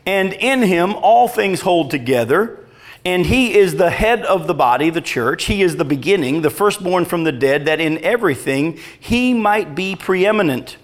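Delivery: measured, emphatic Bible reading; scripture reading. Real, not acted. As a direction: give each phrase of the passage weight. Reads scripture aloud.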